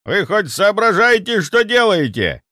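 put-on high, loud outraged old man; furious grandfather confronting staff; indignant demand. A narrator's reading.

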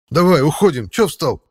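high, loud snorting cat; snooty bored cat. Acted. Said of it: "фыркнул кот".

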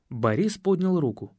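usual speaking voice

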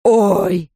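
loud pained "oy"; sudden loud cry of pain; yelp of pain. A narrator's reading. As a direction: yelp as if bitten. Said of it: "взвизгнул мистер Лич".

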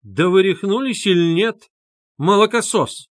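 high, loud shriek of contempt; shrieking retort. A narrator's reading. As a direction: screech at the young fool. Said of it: "взвизгнул Лужин".

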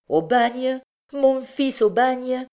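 high, rising cries of disbelief; horrified exclamation. A narrator's reading. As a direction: cry out as a mother stunned by the news. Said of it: "s'écria Miette". (exclamation horrifiée et incrédule)

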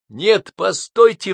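high, slow pleading cry; exclaiming. A narrator's reading. Buzykin crying out after the departing neighbour, slow and high. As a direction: call out to stop them. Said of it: "вскричал Бузыкин".

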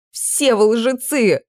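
slow, breaking, hurt; on the edge of tears. Acted. Princess in the prince's arms, breaking into tears. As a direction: let it crack into crying. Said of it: "И заплакала".

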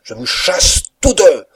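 high, very loud outburst; furious shout. A narrator's reading. Master sacking both servants, high furious shout. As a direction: explode at them at full voice. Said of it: "capable d'exprimer sa colère".

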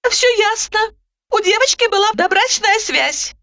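high, brisk interrupting voice; Roza cutting in. A narrator's reading. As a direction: cut her off, businesslike. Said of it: "прервала ... Роза".

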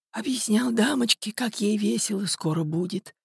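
put-on high, creaky-sly old man's voice; smirking old man. A narrator's reading. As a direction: answer high with a nasty smirk. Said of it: "усмехнулся старик". (с ехидной усмешкой, высоким стариковским голосом)

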